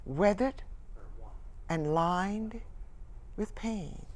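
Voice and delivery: measured phrases with long pauses; sorrowful reflection. Acted. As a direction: dwell on each painful word. Revelation, first take.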